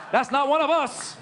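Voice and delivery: high, loud gleeful relief; excited relief. Retold or imitated. Comic gloating that the bomber isn't Middle Eastern, excited. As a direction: crow it out happily. Relieved after hearing the name.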